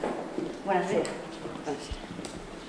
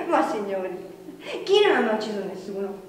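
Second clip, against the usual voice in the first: laughing flippantly; 2 semitones lower than usual. Acted. Asks flippantly while laughing.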